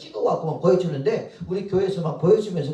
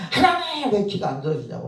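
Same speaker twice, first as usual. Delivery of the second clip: demanding complaint; 6 semitones higher than usual. Retold or imitated. Missionary arguing with God over unanswered prayer, mock complaining cry. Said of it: "막 따진대요".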